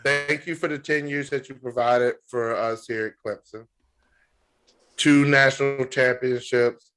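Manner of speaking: a half-joking heartfelt farewell speech; mock official statement. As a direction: address the departing coach with solemn gratitude. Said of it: "My official statement".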